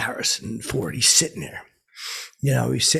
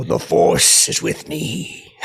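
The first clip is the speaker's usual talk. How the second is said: Darth Vader; 6 dB louder, much slower than usual. Retold or imitated. To Harrison Ford at a party, mock Vader voice. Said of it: "I did like that, like Darth".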